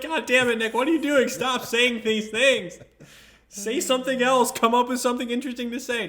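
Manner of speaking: pleading, worked-up inner voice; exasperated self-scolding. Acted. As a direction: scold yourself in rising exasperation. Scolds himself mid-date, acted inner voice.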